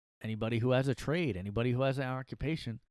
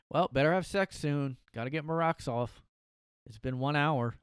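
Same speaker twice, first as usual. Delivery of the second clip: eager new inmate; 3 semitones higher, 3 dB louder than usual. Acted. New inmate character looking eagerly.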